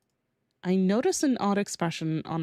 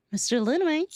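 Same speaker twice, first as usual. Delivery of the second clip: lightly voiced heroine; 8 semitones higher, faster than usual. Reads heroine's line, pitched up.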